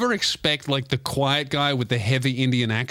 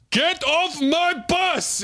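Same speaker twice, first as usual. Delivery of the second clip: high, slow furious yell; a fed-up bus driver's shout; 14 semitones higher, much slower than usual. Retold or imitated. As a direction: bellow him off the bus. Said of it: "And he goes".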